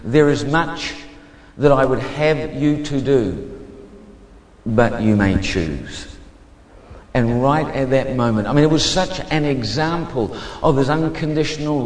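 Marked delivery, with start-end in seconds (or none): 0.0-6.1 slow, measured divine pronouncement; voice of God. Retold or imitated. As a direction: speak as God, unhurried, with long pauses. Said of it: "He said".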